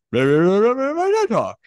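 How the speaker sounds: slurred, half-swallowed mumble; mumbled. Retold or imitated. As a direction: barely get the words out. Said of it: "but it comes out".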